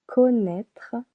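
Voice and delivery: connaître stretched slowly, split into two syllables. Shown as a demonstration. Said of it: "two syllables".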